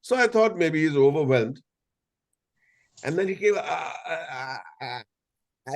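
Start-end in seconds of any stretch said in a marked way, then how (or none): 3.6-5.7 softening, breathless mock gasps; strange gasping sounds. Overwhelmed fan gasping at the actor, fading gasps. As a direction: gasp like someone too overwhelmed to speak. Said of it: "making some strange sounds".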